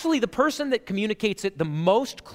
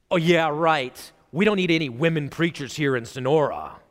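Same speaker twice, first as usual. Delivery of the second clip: mock sarcasm; 6 semitones lower than usual. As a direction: pretend objector, lightly sarcastic and lower. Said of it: "you can call that sarcasm".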